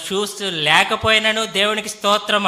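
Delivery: imitated joyful shout. Interpreter echoing the boy's hallelujah, half-shouted. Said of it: "మరి ఎంతో గట్టిగా అరిచాడు".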